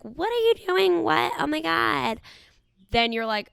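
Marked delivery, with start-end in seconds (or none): 0.0-2.2 high, startled mock panic; shocked friend. Host imitating the friend pulling away in shock. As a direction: play her recoiling in alarm. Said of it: "she pulls away and is like".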